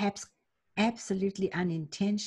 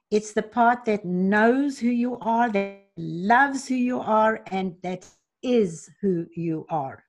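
warm affirmation; 5 dB louder than usual. Acted. Affirming the loving higher self.

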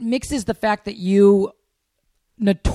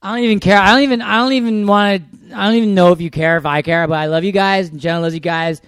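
put-on drunk message. Acts drunk message-leaver to listeners.

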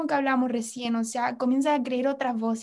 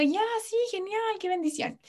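sarcastic; 8 semitones higher, 4 dB quieter than usual. Retold or imitated. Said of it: "Y yo".

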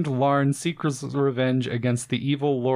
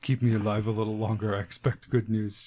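dying man voice; 3 semitones lower, 4 dB quieter, faster than usual. Retold or imitated. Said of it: "that Civil War guy's like".

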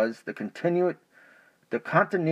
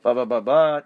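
drumroll sounds; 6 dB louder than usual. Real, not acted. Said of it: "Now, this is important".

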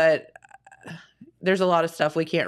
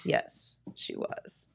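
whispered; 13 dB quieter, much slower than usual. Pretend. Stoner joke.

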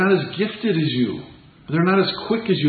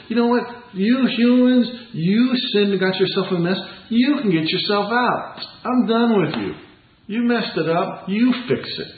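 harsh God, imagined; 5 semitones higher than usual. Pretend. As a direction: brush the humans off like an annoyed deity. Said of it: "That'd be kinda harsh".

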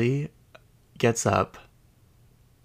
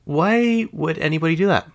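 high, disbelieving why; incredulous; 9 semitones higher than usual. Retold or imitated. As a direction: ask it in total disbelief. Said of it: "And I'm like".

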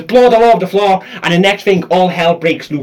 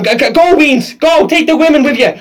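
higher-pitched mock-heroic urging; urgent evacuation call; 5 semitones higher than usual. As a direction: shoo them away to safety, play-acted. Acting out urging children to flee.

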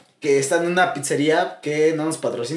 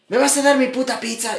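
mock angry demand; 5 semitones higher than usual. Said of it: "la morra se pone bien intensa".

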